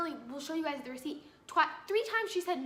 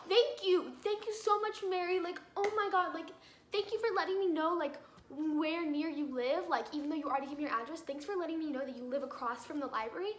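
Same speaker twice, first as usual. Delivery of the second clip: sarcastic thanks. Retold or imitated. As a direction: gush thanks you don't mean.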